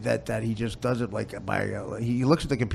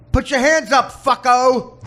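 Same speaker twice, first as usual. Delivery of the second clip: loud, higher tough-cop bark; cop talk; 14 semitones higher, 13 dB louder, slower than usual. Retold or imitated. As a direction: bark it like a movie cop making an arrest. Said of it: "They talk like cops".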